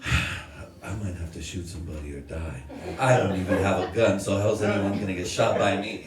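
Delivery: low, softened private dread; mock terrified. Nephew to himself about shooting or dying, mock terrified. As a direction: quietly worry to yourself, played for laughs. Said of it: "I'm terrified. I'm horrified".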